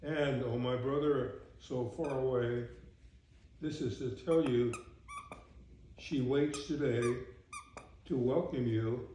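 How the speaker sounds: measured, rhythmic verse reading; poem recitation. Acted. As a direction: read it as homely verse, phrase by phrase. Reads the poem's last stanza.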